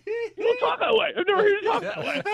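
high, laughing cry of disbelief; laughing protest. Retold or imitated. Son to his dad, laughing high disbelief. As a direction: squeal it out through laughter.

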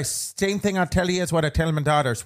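playful Irish lilt; homely advice in mock Irish; put-on Irish accent. Host passing on advice given to daughters, Irish accent.

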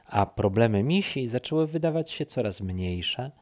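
usual speaking voice

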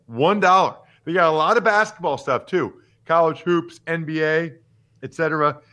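upbeat, pitchy sponsor read; host reading a betting ad. Acted. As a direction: sell the promo to listeners.

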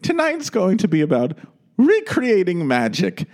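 high, slow, grand hostess voice; lofty, slow gala announcement; Angela Lansbury impression. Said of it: "she goes".

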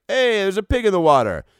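high, loud mock exclamation; excited callout. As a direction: call out as if spotting something in the water. Acting out swimmer spotting a pig.

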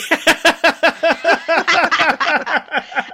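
cracking up loudly; long loud laugh. Real, not acted. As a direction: burst out laughing. Group laughs at the howl.

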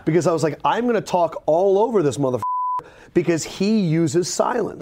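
talking around a pen in the mouth; words slightly blocked by a pen. Real, not acted. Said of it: "I put the pen in my mouth".

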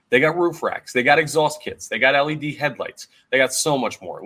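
punchy, upbeat sponsor read with listed selling points. Real, not acted. Host pitching car parts to listeners, punchy ad read. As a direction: sell it like a podcast host's sponsor spot.

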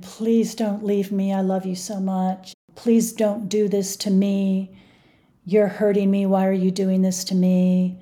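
a hint of a crying, clingy ex-boyfriend begging; imitating whining plea. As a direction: mimic his begging, dragged out and whiny. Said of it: "And he's crying and whining".

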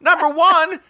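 high-pitched protest through laughter; laughing objection. Real, not acted. Guesser lists problems with Paula's clues, laughing objection. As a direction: lodge a complaint while cracking up.

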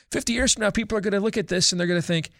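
lightly imitating Paul's English accent, mocking the breakup; a hint of English accent on the quote. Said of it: "in his English accent".

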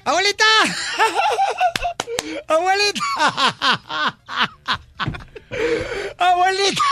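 gritos agudos de niño entre carcajadas; gritando y riendo. Retold or imitated. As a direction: grita llamando y suelta la risa. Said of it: "empieza a gritar y a reírse". (niño grita a la abuela entre carcajadas)

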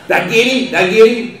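eager, breathless hunter asking; excited. Retold or imitated. Nervous hunter after his shot.

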